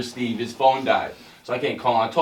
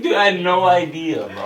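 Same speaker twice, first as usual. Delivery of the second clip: laughing, louder, half-shouting the quote; losing it; 3 semitones higher, 5 dB louder than usual. Retold or imitated. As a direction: crack up while you say it. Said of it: "I was losing it".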